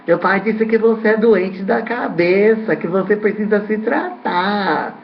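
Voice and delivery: put-on light child voice asking a question; little boy's voice. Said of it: "Eu falei assim".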